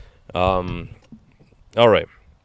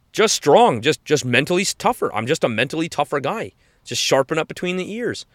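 higher, proud tough-guy tone; imitating the fighter; 5 semitones higher than usual. The fighter explaining his mental toughness to a fan, proud. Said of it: "And you're like".

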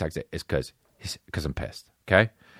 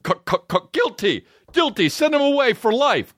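mock judge; 12 semitones higher than usual. Mock judge sentencing a guy for cologne. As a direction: ham up a stuttering judge.

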